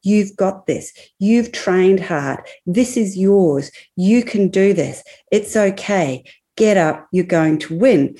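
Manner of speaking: measured, mildly acted self-encouragement; understated pep talk to oneself, deliberately spaced; encouraging inner voice. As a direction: lightly voice a supportive inner coach, phrase by phrase. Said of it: "Her inner narrative voice was obviously saying".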